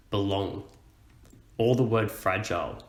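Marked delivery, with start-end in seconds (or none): 0.1-0.6 "Belong" with the weight on "long"; light "Be", stressed "long" in "Belong"; stress on the second syllable. Shown as a demonstration. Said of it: "the long is stressed, we emphasize it".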